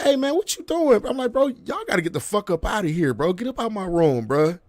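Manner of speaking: high-pitched, indignant demand to leave; re-enacted protest at uninvited guests; acted indignant confrontation. Acted confrontation, catching intruders in bed.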